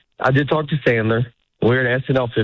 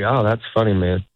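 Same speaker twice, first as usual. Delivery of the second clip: dismissive oh that's funny; 3 semitones lower than usual. Shown as a demonstration. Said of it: "in this tone".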